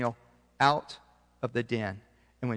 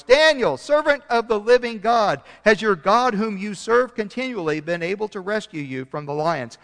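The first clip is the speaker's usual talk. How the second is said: higher, louder anguished calling out; 5 semitones higher, 4 dB louder than usual. Acted. King calling into the lions' den, anguished. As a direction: call desperately into the den. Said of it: "he called to Daniel in an anguished voice".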